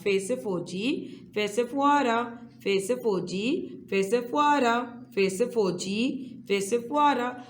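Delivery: rhythmic chant, each line rising then falling; sing-song classroom drill. Shown as a demonstration. Teacher chanting letter rhymes to young students, sing-song. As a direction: lead the class through a call-and-repeat rhyme.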